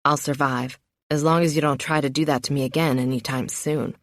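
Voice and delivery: tired lover teasing from the floor; low and drained, a little wry; lightly voiced worn-out man. Narrator voices Ozzy, male lead.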